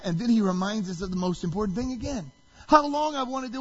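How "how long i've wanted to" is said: high, raised lament; anguished plea. Retold or imitated. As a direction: cry out with longing, acting Jesus. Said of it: "he weeps".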